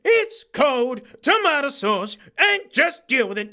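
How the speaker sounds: high, loud exaggerated bloke voice; shouty over-the-top Aussie bloke; hammed-up ocker rant. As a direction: belt it out like a cartoon Aussie larrikin. Loud mock rant about snacks.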